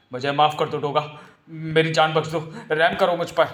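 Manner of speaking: begging for mercy; frightened pleading. Acted. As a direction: plead for your life. Criminal begs Doga for mercy.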